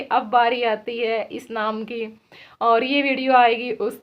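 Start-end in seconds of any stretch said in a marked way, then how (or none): 0.0-2.1 imitating announcer. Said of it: "ये ऐसे कर रहे थे".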